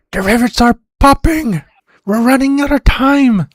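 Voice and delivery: high-pitched, loud panicked scream; Silas screaming. Acted. Game master as crewman warning that time runs out, screaming. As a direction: scream an urgent warning from the back. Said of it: "Silas screaming".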